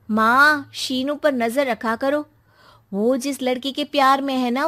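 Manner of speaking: loud, insistent daughter warning her mother; scheming daughter. Acted. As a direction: stoke mom's fear urgently. Daughter turning mother against son.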